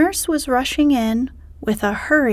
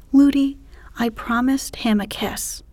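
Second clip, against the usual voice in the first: pleading princess; 2 semitones higher than usual. Acted.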